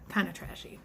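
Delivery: whispered catty aside; whispered judgment. Real, not acted. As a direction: breathe it out like gossip. Catty aside about the date.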